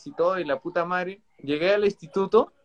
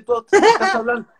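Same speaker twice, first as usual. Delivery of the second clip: mock girlfriend; 4 semitones higher than usual. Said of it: "me dice".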